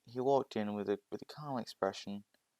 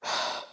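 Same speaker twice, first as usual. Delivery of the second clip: weary sigh. Acted. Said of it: "as he goes".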